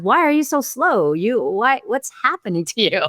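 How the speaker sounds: the doubting voice in your head; self-questioning inner voice. Retold or imitated. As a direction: question yourself in mild mock disbelief. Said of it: "a battle of my own mind".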